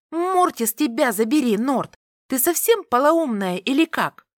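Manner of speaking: high, sharp furious outburst; whispered fury. A narrator's reading. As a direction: spit it out in outrage. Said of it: "прошипела девушка голосом Корделии".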